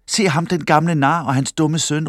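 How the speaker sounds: high-pitched mocking call. A narrator's reading. Man in the market crowd mocks father and son, calling out. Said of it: "råbte en".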